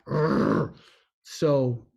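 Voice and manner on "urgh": bored audience groan. Retold or imitated. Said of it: "makes your audience go".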